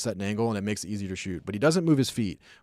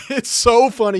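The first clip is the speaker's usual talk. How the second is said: laughing, high-pitched and louder; amused laughing; 12 semitones higher, 9 dB louder than usual. Real, not acted. Streamer cracking up at a mic'd up clip he retells, real laughter. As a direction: crack up while talking. Cracks up at his own story.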